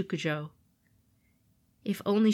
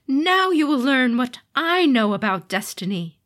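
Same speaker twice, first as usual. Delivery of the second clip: loud threatening demon voice; menacing demon lord; 6 semitones higher, 8 dB louder than usual. Acted. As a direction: promise doom.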